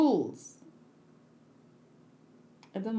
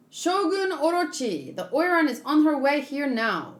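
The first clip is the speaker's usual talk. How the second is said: lightly acted anime character voices, each figure a bit different; voiced manga characters; 2 semitones higher than usual. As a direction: read the panel dialogue as the characters, lightly voiced.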